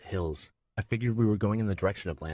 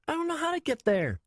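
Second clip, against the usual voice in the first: put-on tearful child; 3 dB louder than usual. Nico dropped off alone, high tearful child. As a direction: hold back tears as a scared boy. Frightened boy.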